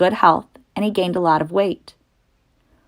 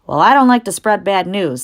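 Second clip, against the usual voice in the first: put-on old sheep voice; 3 semitones higher, 4 dB louder than usual. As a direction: warn him like a wise old sheep. Old sheep breaks bad news.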